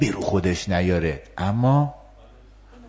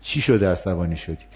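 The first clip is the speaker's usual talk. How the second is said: softer, calm understanding reply to an angry person; empathic demo; 5 semitones lower, 4 dB quieter than usual. Shown as a demonstration. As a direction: show you get their anger, gently and a little softer.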